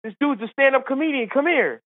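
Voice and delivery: high, excited mock yell; calling back. Caddy calling his golfer brother over, mild mock yell. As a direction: call someone over without much extra volume. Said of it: "he yells back to his brother".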